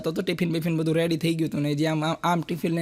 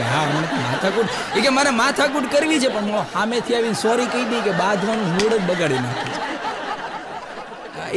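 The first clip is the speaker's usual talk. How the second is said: laughing woman; 2 semitones higher than usual. Acted. Woman laughing while telling doctor.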